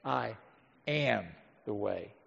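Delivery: very soft, low and slow, word by word; hushed solemn declaration. Retold or imitated. Preacher voicing Jesus to the congregation, hushed and solemn. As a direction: let each word land quietly, with long pauses between. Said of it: "What does he say?".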